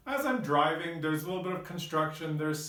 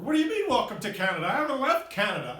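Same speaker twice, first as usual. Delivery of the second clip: fast, louder, higher disbelieving protest; incredulous outburst; 4 semitones higher, 3 dB louder, faster than usual. Retold or imitated. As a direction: rattle it off in baffled protest. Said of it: "I go".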